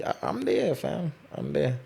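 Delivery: excited. Retold or imitated. Retelling eager reply to invite.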